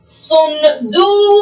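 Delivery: صندوقا repeated slowly and evenly; steady slow صندوقا. Shown as a demonstration. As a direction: say صندوقا again slowly for the class. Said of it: "الآن مثال آخر".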